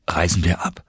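fast tonlos geflüstert; versagende Stimme. A narrator's reading. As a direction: die Stimme bleibt ihm weg. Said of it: "Die Stimme versagte mir". (stockendes Flüstern)

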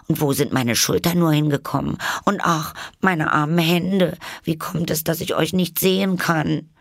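high, plaintive questioning; distressed bewilderment. A narrator's reading. Alice searches for her shoulders and hands, distressed. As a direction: lament in a high, worried girl's voice.

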